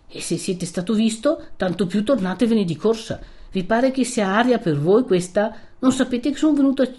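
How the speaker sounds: a touch of agitated elder's warning; anxious urging. Acted. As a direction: press him to get away at once. Priest urges him to flee.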